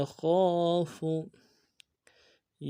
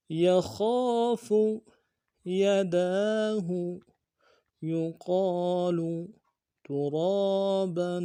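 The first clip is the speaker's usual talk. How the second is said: slow, even fluent recitation; fluent reading. Shown as a demonstration. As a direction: read the words smoothly in one flow. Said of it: "اب پورے سبق کو رواں پڑھتے ہیں".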